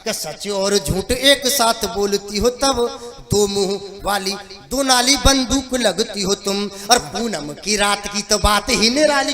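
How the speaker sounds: measured, rhythmic stage poetry; verse recitation. Acted. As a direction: lay out the verse for the audience. Recites his comic verse. (लयदार कविता पाठ)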